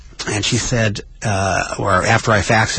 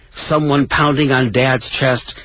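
higher-pitched, measured story narration with pauses; dramatic reading; 5 semitones higher, slower than usual. Acted. Host reads Billy Crystal's funeral memoir to listeners, dramatic reading. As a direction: read it as a poignant, dramatic memoir.

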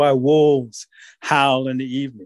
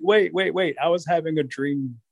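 panicky Rabbit; 2 semitones higher than usual. Acted. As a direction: stall them, wait wait. Rabbit pleads with wolves.

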